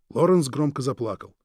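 usual speaking voice

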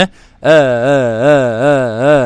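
slow, eased آه with a gentle second hamza; softened hamza. Shown as a demonstration. Teacher drilling students on tasheel. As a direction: glide the hamza toward the alif. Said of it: "هكذا".

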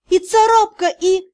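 высокий жалобный голос, обрывающийся на полуслове; простонать высоко и не договорить. A narrator's reading. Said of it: "простонала я". (жалобно, высоким голосом)

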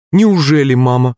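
a daughter's startled exclamation to her mother; exclaiming. A narrator's reading. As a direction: burst out in disbelief. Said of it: "воскликнула маман".

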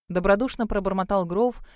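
ordinary delivery

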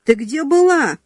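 family shouting at the late returner; alarmed yell. Acted. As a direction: demand it in a panic. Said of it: "закричали домашние".

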